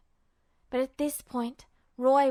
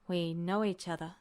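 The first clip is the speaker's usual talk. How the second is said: lower, softer, doubtful echo; uncertain repeat; 7 semitones lower, 6 dB quieter than usual. Acted. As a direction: repeat it unsure of yourself. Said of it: "he repeated uncertainly".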